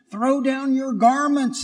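cross. Acted. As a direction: snap it like a vain donkey. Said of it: "he said crossly".

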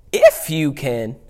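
sassy, slow incredulous echo; Jesus. Acted. Jesus answers the boy's father, sassy. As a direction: throw it back with drawn-out attitude. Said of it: "I love sassy Jesus".

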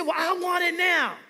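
high, loud bratty shout; mock child's tantrum scream. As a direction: yell it like a kid demanding candy. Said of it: "screamed at his mom".

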